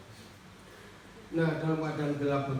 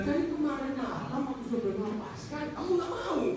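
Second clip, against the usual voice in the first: God's reproach; 8 semitones higher than usual. Acted. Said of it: "Kan Tuhan bilang".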